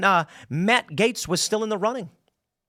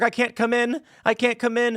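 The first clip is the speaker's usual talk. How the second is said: mock whimper; 4 semitones higher than usual. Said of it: "he calls in work".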